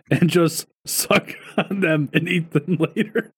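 reading through laughter; words broken by a laugh; laughing while reading. Real, not acted.

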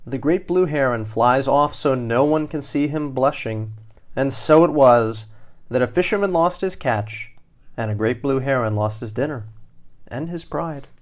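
expressive read-aloud winding down; animated storyteller; story narration. A narrator's reading. Reads picture book to children.

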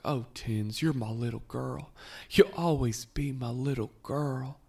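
mimicked mother cooing to her daughter, pitch rising; Dale. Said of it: "says this weird thing".

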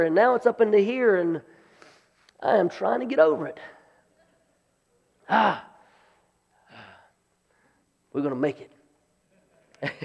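hoarse, croaky throat; talking through a frog in the throat. Real, not acted. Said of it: "I sound like a frog this morning".

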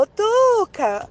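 slow mock shout across the yard; imitating the crush calling her name from outside; called out. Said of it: "chegou lá no murinho e gritou".

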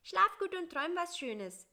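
small, high and plaintive; a little fly grumbling high up. Acted. Bissi to the spider at night, high and plaintive.

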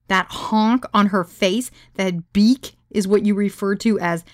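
loud, slow, mocking retort; scornful disbelief. Woman scoffing at his praise, loudly scornful. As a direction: hit the insults hard and drag them out.

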